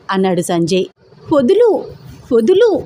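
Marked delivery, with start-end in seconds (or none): 1.3-2.8 struggling cry. A narrator's reading. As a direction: shriek to be let go, pulling away. Held tight, struggling to break free. (గట్టిగా, పైస్థాయిలో విడిపించుకునే అరుపు)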